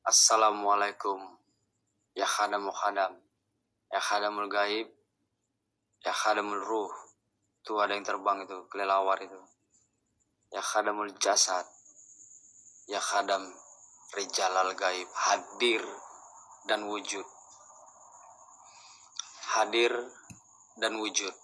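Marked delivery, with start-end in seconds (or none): 0.1-6.9 ritual incantation. Acted. Summoning chant to spirits. 10.5-21.3 ritual incantation. Acted. Ghost hunter calling the unseen spirits, low incantation. Summoning chant continues.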